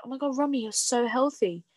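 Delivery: lightly acted fawning compliment; imitated gushing praise. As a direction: mimic someone gushing over a friend. Voicing admirers' praise.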